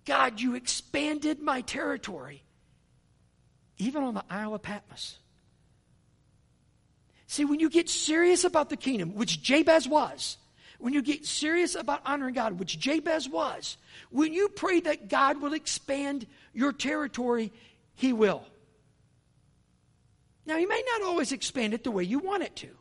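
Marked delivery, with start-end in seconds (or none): 0.0-5.2 slow, amazed thanks to God; awed thanks. Retold or imitated. Pastor on the boat thanking God in awe. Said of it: "Dave's like". 7.3-21.9 high, building preacher's call; preaching with force. Acted. Preacher urging the congregation, building intensity.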